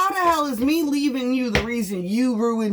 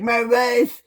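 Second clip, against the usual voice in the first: mocking voice of a cheating husband complaining; parodying men who blame their wives, in a mocking voice; mock whiny ex-husband. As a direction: sneer it like a whiny man. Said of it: "you wanna be like".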